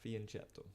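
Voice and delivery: "Fianchetto" with a soft sh-like CH, fee-an-CHET-to; soft CH pronunciation. Shown as a demonstration. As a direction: try out "Fianchetto" with "chet", not "ket". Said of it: "is it Fianchetto or Fianchetto".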